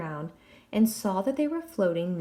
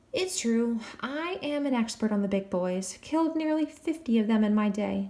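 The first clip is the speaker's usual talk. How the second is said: boasting; 2 semitones higher than usual. Acted. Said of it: "Jack boasted".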